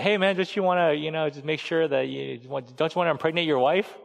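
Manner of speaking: a touch of nervous pleading; nervous David. Retold or imitated. Pastor voicing King David, nervously nudging Uriah home. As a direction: fumble the words like a man caught out. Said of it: "hear the nervousness in David's voice".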